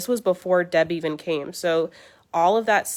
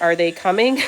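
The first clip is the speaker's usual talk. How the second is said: loud impatient demand; 7 dB louder than usual. Retold or imitated. To the mold lady on the phone, a loud impatient ask. Calling the late contractor's boss.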